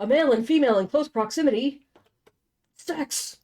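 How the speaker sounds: fast, high mocking deadpan. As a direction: parody the cliche. Mocking the romance cliche.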